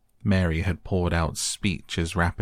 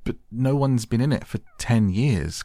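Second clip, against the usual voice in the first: higher and louder, protesting; excited cry; 6 semitones higher, 4 dB louder than usual. A narrator's reading. Colin, amazed, protests to Ben: excited cry. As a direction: blurt it out in disbelief. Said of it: "cried Colin".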